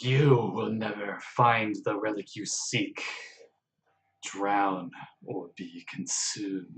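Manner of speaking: slow, menacing serpentine woman's voice; lightly voiced abyssal sea goddess; evil serpent voice. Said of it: "evil serpentine feminine voice".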